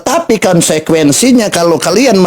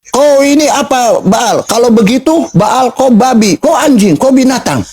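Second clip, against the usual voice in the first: higher-pitched mock angry rant; imitating anger; 8 semitones higher than usual. Debater retelling an opponent's insults to Tante Mika, mock angry. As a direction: act out an angry accuser's name-calling. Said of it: "Dia marah sama saya".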